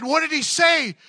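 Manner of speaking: loud, very high eager question. Retold or imitated. Counselor playing along with client's revelation, eager questioning. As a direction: act it out, urgently wanting the answer.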